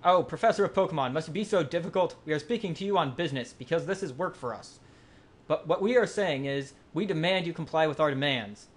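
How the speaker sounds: lightly hammed demanding grunt; villain voice. Reads villain grunt dialogue.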